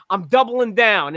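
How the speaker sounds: slow, emphatic West New York accent, a mock table-smack. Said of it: "in his West New York accent".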